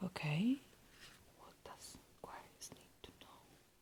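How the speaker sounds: soft, hushed, barely voiced whisper. Doing a tarot reading for aquarius while it's silent outside, whispering. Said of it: "I don't know why I'm whispering".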